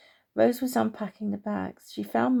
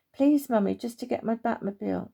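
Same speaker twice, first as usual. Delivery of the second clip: put-on pleading child. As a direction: press mum once more for the toy. Mark keeps begging mum.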